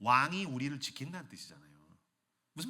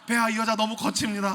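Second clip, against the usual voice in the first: loud grim guard; 6 semitones higher, 9 dB louder than usual. Acted. Ninja complaining.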